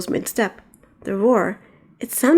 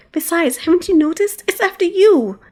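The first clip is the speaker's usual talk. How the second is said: higher urgent cry; urgent warning; 9 semitones higher, 4 dB louder than usual. Acted. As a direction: warn her while running. Maria warns while fleeing.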